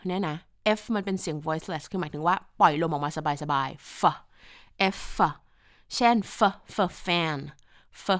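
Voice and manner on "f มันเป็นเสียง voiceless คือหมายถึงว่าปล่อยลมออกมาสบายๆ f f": F as an easy puff of air, "fuh"; relaxed, airy F for a phonics demo; voiceless F sound. Shown as a demonstration. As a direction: release F loosely, with no buzz in the throat.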